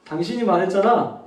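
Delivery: 당신이 말했잖아 a notch down, even and brief. Shown as a demonstration. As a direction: drop the tone slightly, keep the ending short. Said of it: "한 톤만 내려서".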